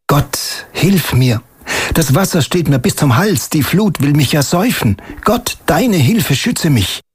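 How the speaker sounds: reading scripture. Acted. Reciting a psalm prayer.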